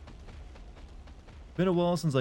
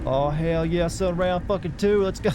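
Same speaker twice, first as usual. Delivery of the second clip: hyped cheer; 5 semitones higher, slower than usual. Real, not acted. Boss fight round two begins.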